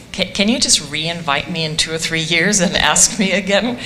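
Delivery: said through a light chuckle; real light laughter in the voice; amused. Real, not acted. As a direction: chuckle while playfully dodging a tough question. Joking dodge of hard question.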